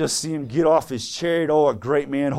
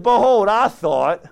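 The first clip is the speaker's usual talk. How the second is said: slow, mildly indignant proclamation; indignant Naaman; 3 semitones higher, 4 dB louder, slower than usual. Acted. Preacher acts Naaman turning away from Elisha's order, indignant. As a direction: play offended pride, drawn out. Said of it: "But Naaman was wroth".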